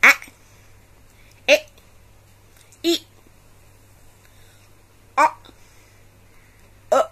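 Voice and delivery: each short vowel sound said alone, clearly. Shown as a demonstration. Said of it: "The short vowels are".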